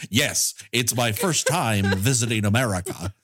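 a hint of Kansas farm-boy accent; Kansas farmer accent. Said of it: "you sound like a Kansas dirt farmer".

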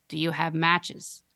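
put-on slow monotone creepy little girl; flat, eerie, slow question; creepy monotone child. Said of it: "monotone and deeply".

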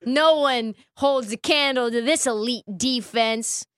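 mock-earnest team praise; troll voice. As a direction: sell the fake love, tongue in cheek. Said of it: "This is the troll voice, by the way".

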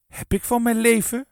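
high, loud squeak. A narrator's reading. Mevrouw Bron on entering the hall, squeaking. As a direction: squeal it in indignation. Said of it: "piepte mevrouw Bron".

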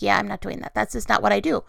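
imitating a calm husband's refusal; Kevin. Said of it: "looked at me so calmly, like".

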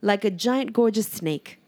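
slow, high, awed and laughing; gushing over the diva; swooning praise. Real, not acted. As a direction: savour each word in awe. Rhapsodizing over a singer's voice.

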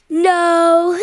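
loud put-on silly monster voice; grumpy guitar voice. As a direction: bark it out as a cranky guitar. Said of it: "That's not an answer".

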